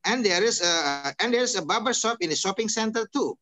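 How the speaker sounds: "too" falls at the end like a statement; "center too" closing on a falling tune; statement intonation. Shown as a demonstration. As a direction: read it as a statement, dropping on "too". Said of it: "itu kalimat pernyataan".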